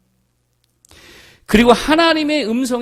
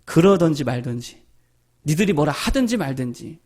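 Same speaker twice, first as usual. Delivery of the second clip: shrugging indifference; 6 semitones lower than usual. Retold or imitated. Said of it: "속으로 그랬대요".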